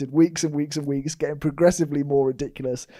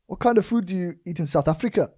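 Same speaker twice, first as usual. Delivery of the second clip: put-on South African accent; 4 semitones higher than usual. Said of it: "they go up and down".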